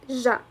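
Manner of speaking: ج as zh, with no d in front; sound demonstration. Shown as a demonstration. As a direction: say ج as "zha". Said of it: "stick to the sound".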